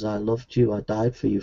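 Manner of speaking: low, soft voice of God; distant voice of God. Acted. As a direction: speak low and quietly, as if God calls from afar. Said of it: "But in the distance, God says".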